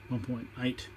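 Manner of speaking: ordinary talk, nothing marked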